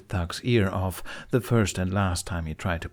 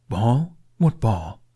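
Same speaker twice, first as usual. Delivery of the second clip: perked-up dragon; 3 semitones higher, 5 dB louder, much slower than usual. A narrator's reading. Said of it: "Toothless perked up".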